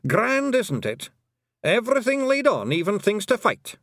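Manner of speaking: high, exuberant Feegle enthusiasm; beaming delight. A narrator's reading. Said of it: "beaming happily".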